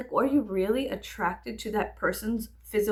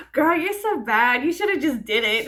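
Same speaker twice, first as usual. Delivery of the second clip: sassy egging on; 4 semitones higher, 7 dB louder than usual. Retold or imitated. To Star after a near-killing: playful mock-sassy encouragement. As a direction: tease the cartoon girl like a bad-influence bestie. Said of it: "No, I'm kidding".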